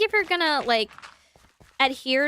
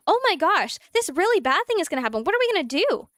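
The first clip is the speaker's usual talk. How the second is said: mock panic; 4 semitones higher than usual. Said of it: "that same energy".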